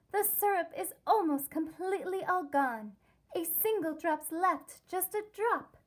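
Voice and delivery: breathless news from a nosy cheese; Miss Brie's news. Acted. Miss Brie announces the news.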